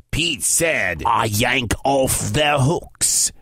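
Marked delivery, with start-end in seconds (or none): 1.0-3.3 slow, low giant roar. Acted. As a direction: drag out the threat in a giant voice. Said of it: "roared the giant".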